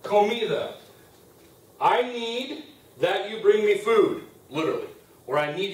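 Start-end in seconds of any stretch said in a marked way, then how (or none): 0.0-0.8 long pauses between each word; slow dictation. Shown as a demonstration. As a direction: dictate it one word at a time. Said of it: "teacher dictates phrase word by word".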